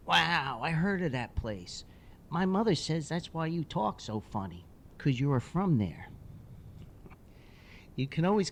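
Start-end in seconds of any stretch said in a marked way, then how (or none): 0.1-6.1 put-on curious little boy. Boy quizzing the hockey player about places, high and curious. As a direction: ask like a curious kid.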